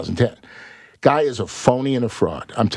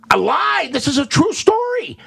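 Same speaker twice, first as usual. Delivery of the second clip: high shocked outrage, much higher; disbelieving high cry; mock shocked protest; indignant protest. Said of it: "I was shocked and go".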